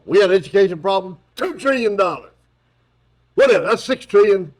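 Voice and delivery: lightly hammed-up Biden; mocking Biden adding up trillions; mocking Joe Biden. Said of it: "my mocking of Joe Biden".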